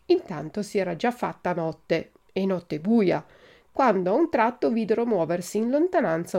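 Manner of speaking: animated storybook reading with acted dialogue; story narration. A narrator's reading. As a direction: read the dialogue out with lively, rising questions. Reads Pinocchio chapter aloud. (lettura animata di una fiaba)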